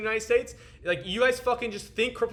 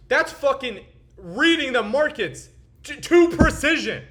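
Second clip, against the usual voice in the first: excited; 7 semitones higher, 8 dB louder than usual. Real, not acted. Boasting, voice spikes.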